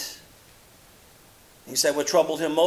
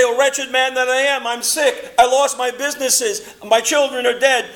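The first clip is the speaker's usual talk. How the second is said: loud, higher complaining lament; Job's lament; 8 semitones higher, 6 dB louder than usual. Retold or imitated. Job complaining to God about his losses, loud and higher. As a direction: wail out the list of losses. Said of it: "Job would say".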